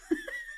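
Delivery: short high, soft laugh; amused laugh. Real, not acted. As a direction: laugh at your own impression. Laughs at her own imitation.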